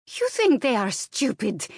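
put-on high, incredulous Slavic-accented retort; stronger Slavic accent. A narrator's reading. Maid challenging her employer, exasperated Slavic accent. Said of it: "her accent growing stronger".

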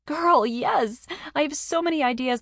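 high, loud burst of enthusiasm; excited exclamation. A narrator's reading. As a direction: burst out with delighted eagerness. Carney claps, keen on baking plans.

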